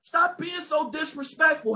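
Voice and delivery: a sharper, firmer repeat of the warning; now snap it at them as a rebuke; prophet's shouted warning. Acted. Prophet rebuking Israel a second time, sharp and firm.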